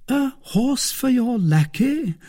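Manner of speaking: hesitating. Acted. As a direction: she doubts the expense.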